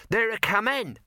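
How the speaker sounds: put-on high, excited boy's call; shouted. A narrator's reading. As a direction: call out the news as a boy would. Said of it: "shouted the boy".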